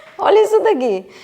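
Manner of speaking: talking through laughter. Reacting to a scripture passage just read aloud: laughing while talking. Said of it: "Eu tô rindo".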